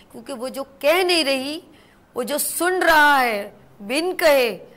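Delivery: emphatic sermon-like admonition, swelling on key words; solemn warning. Real, not acted. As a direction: warn them of God's reckoning, weighting each phrase.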